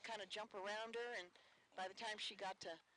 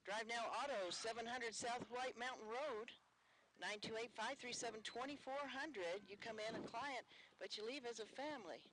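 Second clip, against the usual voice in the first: sponsor ad read; 2 semitones higher than usual. Acted. Reads sponsor ad on air.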